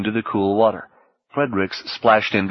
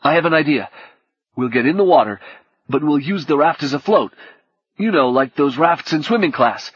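nervous excitement; 5 semitones higher than usual. Acted. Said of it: "terrified energy".

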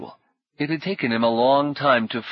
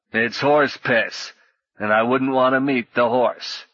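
gruff contempt; 2 semitones higher, 3 dB louder than usual. Acted. Surly swordsman insults the mead.

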